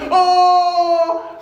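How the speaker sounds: shouted "Oh", then slow, high pleading; a father calling out from disaster, slowed and high; anguished cry. Acted. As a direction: beg the god to save him, drawn out. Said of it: "dia teriak lagi".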